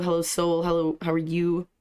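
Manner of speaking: ordinary delivery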